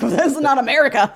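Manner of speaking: mock surprised. Acted own reaction.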